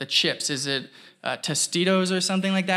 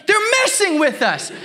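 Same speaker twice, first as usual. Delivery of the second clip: higher, mock-conspiratorial shopper voice; hint at a playful conspiracy, pitched up; imitating the shopper; 11 semitones higher than usual. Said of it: "He's like".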